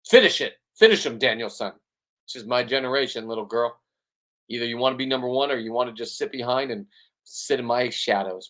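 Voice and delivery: a hint of a tough coach pushing his daughter; pushy mock coach; bully coach. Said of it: "that was a bully thing to say".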